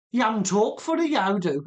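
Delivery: imitating a thick Wolverhampton accent, lightly done. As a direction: quote the local girl in broad Wolverhampton dialect. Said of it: "in a really thick Wolverhampton accent".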